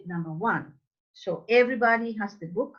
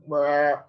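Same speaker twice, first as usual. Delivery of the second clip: disgusted "bleh"; 6 semitones lower, 3 dB louder than usual. Shown as a demonstration. Mock disgust at the mispronunciation.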